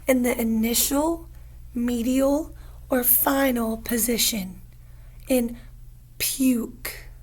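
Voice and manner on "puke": whisper. Shown as a demonstration. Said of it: "whispered target word".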